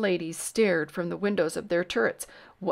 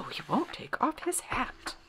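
hushed muttering; 6 semitones higher, 6 dB quieter than usual. Acted. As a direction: murmur it behind a door. Muttering voices behind doors.

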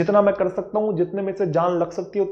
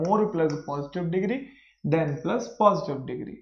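formula said very slowly; slow formula dictation; 3 dB quieter, much slower than usual. Shown as a demonstration. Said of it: "formula dictation".

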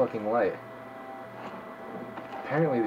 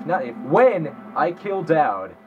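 "when" pressed hard, the whole line slowed down; slow, deliberate "when I kill Dowd"; stress on when; 2 semitones higher, slower than usual. Real, not acted. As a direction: correct yourself by leaning on "when". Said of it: "no, no, not if".

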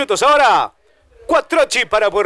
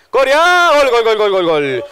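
goal call; 4 dB louder than usual. Real, not acted. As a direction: yell the goal out.

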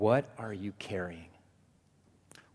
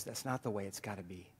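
gentle reply; 7 dB quieter than usual. Acted. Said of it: "Jesus says".

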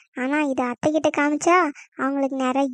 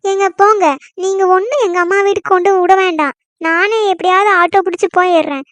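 huffy storming off; 2 semitones higher, 3 dB louder than usual. Acted. Wife storms off to mother's.

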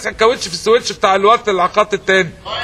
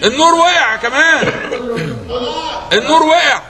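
laughing; 6 semitones higher, slower than usual. Real, not acted. Host laughing at chaos.

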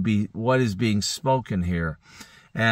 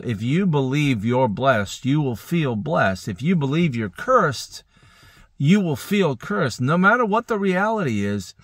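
building sermon emphasis; 3 semitones higher than usual. Acted. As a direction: preach it harder line by line, up to a peak. Preacher drives the point home.

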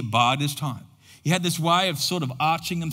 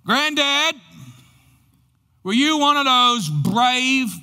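put-on higher, slow, earnest child's question; grandchild asking; 5 semitones higher, slower than usual. Grandchild asking grandfather about the war, slow and high. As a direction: ask it slowly like a grandchild looking up at his hero.

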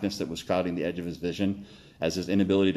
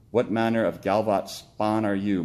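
squeaked out; 2 semitones higher than usual. Acted. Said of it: "squeaked out with his now limited breath".

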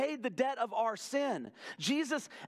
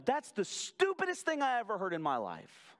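Paul's exasperated retort; 3 semitones higher than usual. Retold or imitated. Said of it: "Paul looking at the Roman church and going".

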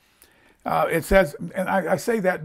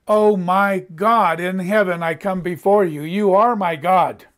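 worshipful prayer; 3 dB louder than usual. Shown as a demonstration. Preacher showing how to pray "my God" in worship, reverent and forceful. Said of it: "instead of in worship and in praise and prayer, just say".

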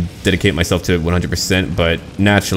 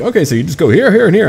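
imitating direction givers; 11 semitones higher, 4 dB louder, faster than usual. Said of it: "People will be like".

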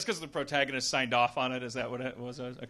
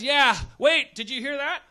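alarmed soldier; 10 semitones higher, 13 dB louder than usual. Acted. Acted soldier alerted.

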